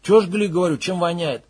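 insistent loud question. Acted. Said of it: "возвысил голос Макс".

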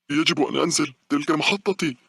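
loud, high-pitched yelling; shouting old woman. A narrator's reading. Old woman insisting it is her stop, shouting. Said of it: "بدأت تصرخ بصوت عال".

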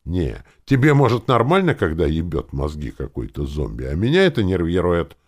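agitated, rising exasperation; getting worked up. A narrator's reading. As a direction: wind yourself up as you complain. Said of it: "завёлся эльф".

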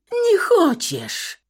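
very high, slow, loud sneer; mocking furious echo. A narrator's reading. Wife mocking her husband's plea in fury. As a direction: throw his words back at him scornfully.

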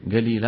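"قليل" said galil, with a hard g; qaf as g. Shown as a demonstration. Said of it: "قلبها إلى قاف".

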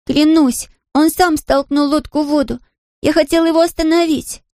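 put-on high girl's voice, swearing her innocence; a child pleading to be believed; insistent girl. A narrator's reading. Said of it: "твердила Мэри".

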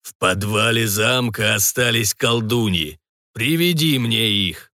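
very slow, eerie demonic voice from a portal; distorted bass. Acted. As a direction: drag each word out like a hellish portal. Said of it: "молвил портал искажённым басом".

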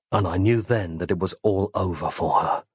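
plain reading voice

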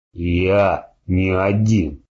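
slow, strained, gurgling with blood. Acted. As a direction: drag each word out through blood. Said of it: "Кряхтя и булькая кровью".

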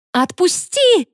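high shriek of panic; frantic high scream. A narrator's reading. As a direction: shriek to be let go. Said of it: "завизжала я".

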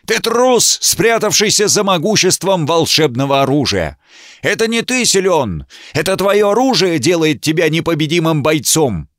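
бешено кричит, намного выше; яростно обличать, на пределе голоса; бешеный крик. A narrator's reading. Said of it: "прокричал он бешено".

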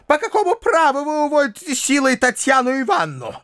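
high-pitched indignant harangue; furious tirade. A narrator's reading. Widow raging at the uncle, high indignant harangue.

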